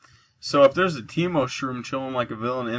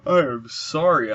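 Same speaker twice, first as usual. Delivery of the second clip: sleepy, yawning through words; 3 semitones higher, 4 dB louder, slower than usual. Real, not acted. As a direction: talk mid-yawn. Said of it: "I'm yawning so much".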